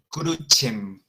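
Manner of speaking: crucem said "KROO-chem", c as ch; Latin pronunciation. Shown as a demonstration. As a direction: say crucem slowly with a ch sound. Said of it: "se pronunciaría la, con la E".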